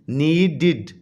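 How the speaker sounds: नीडेड in two beats with a clear "did" ending; ending pronounced id. Shown as a demonstration. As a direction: say नीडेड as नी... डिड. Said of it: "इड". (नीडेड के आख़िर में साफ़ "इड" की आवाज़)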